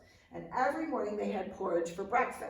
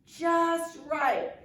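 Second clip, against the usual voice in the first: Goldilocks voice; 8 semitones higher, 6 dB louder than usual. A narrator's reading. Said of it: "and she said".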